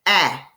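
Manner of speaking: "ah" as a short, loud vowel; crisp teaching demo of "ah", the A in "lap"; short A sound. Shown as a demonstration. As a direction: say "ah" as the isolated short A of "cat". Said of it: "The sound is".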